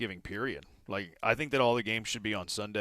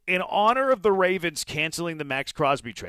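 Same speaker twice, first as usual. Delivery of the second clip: playful mock Italian accent, higher and louder; 5 semitones higher, 5 dB louder than usual. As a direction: ham up an Italian accent for the trade joke. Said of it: "I'm talking like an Italian".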